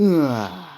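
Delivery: sudden loud yelp of alarm; a yell as the hit lands; real startled cry. Real, not acted.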